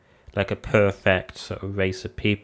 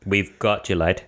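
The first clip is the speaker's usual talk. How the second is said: hammed-up northern English, rising to a wail; northern-accented comic outburst, high and drawn out at the end; mock northern accent; 9 semitones higher, slower than usual. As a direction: put on a broad northern accent for a joke. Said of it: "said it in a really northern accent".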